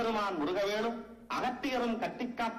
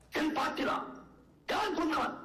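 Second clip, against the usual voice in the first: higher-pitched, indignant demand; affronted disbelief; 5 semitones higher than usual. Acted. Author learns his poem was faulted, affronted. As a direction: demand the culprit with wounded authority.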